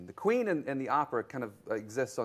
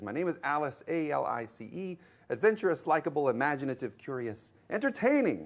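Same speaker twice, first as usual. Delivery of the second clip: bright, eager acrostic listing each word with a lift, adventurous pitched higher and louder; eager recital; 4 semitones higher, 4 dB louder than usual. Retold or imitated. Alice proudly reciting her name acrostic, eager. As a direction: rattle off the qualities like a proud child. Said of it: "does that little thing".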